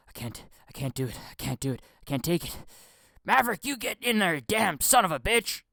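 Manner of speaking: whiny weepy start that flares into a yell; mock drama boy. Mocking Tom Cruise as a drama boy, whiny then shouting. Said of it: "he's a drama boy".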